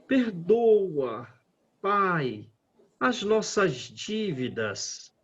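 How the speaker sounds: pleading earnestly, slowing on the debts; an emotional appeal to the Father; heartfelt plea. Shown as a demonstration. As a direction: beg for forgiveness with full feeling. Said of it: "Pra pedir, põe toda emoção".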